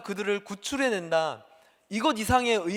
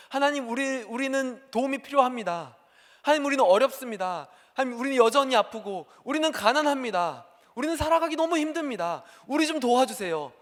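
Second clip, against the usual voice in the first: higher, louder pleading; crying out to God; 5 semitones higher, 4 dB louder than usual. Acted. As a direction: plead and protest to a silent God. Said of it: "하나님께". (로마 압제 아래 백성이 하나님께 높게 호소)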